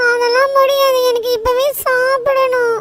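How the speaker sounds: put-on loud, drawn-out childish demand; stubborn tantrum. Boy refusing to wait for his chocolate, stubborn tantrum. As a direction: insist loudly, stretching the last words. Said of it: "அந்த தம்பி இப்படி அடம் பிடிக்கிறாப்புல".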